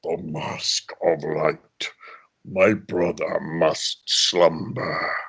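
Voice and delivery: very low, slow, whispery menace; low slow menacing villain; deep villain voice. Shown as a demonstration. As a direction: drop deep and slow like a dark overlord. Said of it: "I have that kind of ability to make my voice sound as though it's pitched".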